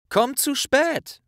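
slow, very high, self-satisfied pronouncement; smug advice. Acted. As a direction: deliver the rule like wisdom. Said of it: "sagte Ron ... zufrieden". (langsam, selbstzufrieden verkündet)

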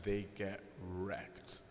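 hushed, slow, breathy aside with no voice; whispered aside. Acted. Priest to congregation, a whispered joking aside. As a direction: drop to a secret whisper for the punchline.

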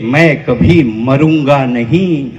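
low, slow recited line; low-pitched, measured verse; verse recitation. Real, not acted. Verse line, first take.

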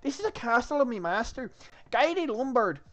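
high, loud mock French accent; retry the guard's bad French accent; attempted French accent. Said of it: "I can't do a French accent".

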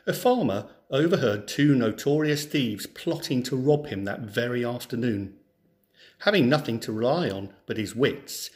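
clear, lively storybook reading; story narration. Acted. Teacher reads a folk tale to schoolchildren, storybook narration. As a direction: read the tale to a class of children.

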